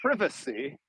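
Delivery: privacy with a short i, PRIV-uh-see; privacy starting like "priv"; British pronunciation. Shown as a demonstration. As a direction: say privacy the English way, first syllable as in privet. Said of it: "and you say".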